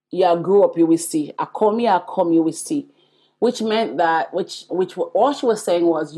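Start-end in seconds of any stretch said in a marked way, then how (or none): 0.1-2.9 Jamaican patois quote. Retold or imitated. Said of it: "I'm gonna say it in the Jamaican way".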